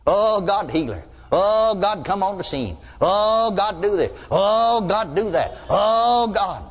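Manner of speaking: rising Oh, falling plea, over and over; mock begging prayer. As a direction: imitate a rote pleading prayer. Imitating repetitive begging prayer.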